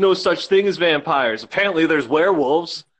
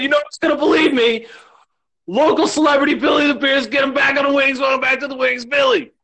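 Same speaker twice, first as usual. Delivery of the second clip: announcer voice; 8 semitones higher than usual. Pretend. Announcer-style celebrity intro.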